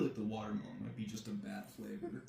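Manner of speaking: whispered aside; whispering. Real, not acted. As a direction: whisper it quietly. Whispered aside during tasting.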